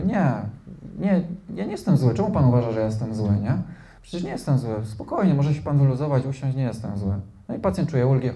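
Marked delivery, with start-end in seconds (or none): 0.0-7.1 mock reassuring therapist. Therapist reassuring patient, acted.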